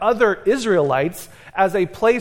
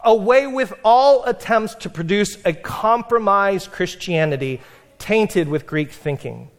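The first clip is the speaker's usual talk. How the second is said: voicing Tertullian's disdain. Shown as a demonstration. Preacher reads his own translation of Tertullian, mildly scornful. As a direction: hit the scorn in each word. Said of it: "This is my translation".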